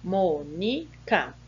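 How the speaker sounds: "Mônica" broken slowly into three separate syllables. Shown as a demonstration. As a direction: say "Mônica" very slowly, a gap after each syllable. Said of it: "a separação de sílaba".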